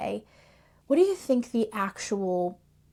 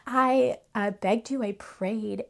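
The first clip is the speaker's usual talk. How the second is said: laughing complaint; 2 semitones higher than usual. Retold or imitated. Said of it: "asks him".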